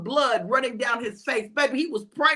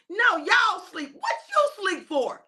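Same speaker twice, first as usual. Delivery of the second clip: higher, slow disbelieving complaint; frustrated Jesus catching the disciples asleep; exasperated scolding; 6 semitones higher, slower than usual. Acted. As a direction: scold them for sleeping. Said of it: "Jesus was frustrated with them".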